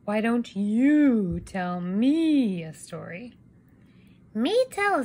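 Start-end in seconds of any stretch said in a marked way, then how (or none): 0.0-3.3 slow sleepy yawned question; slow tired father voice; yawning Papa. Acted. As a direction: say it through a yawn.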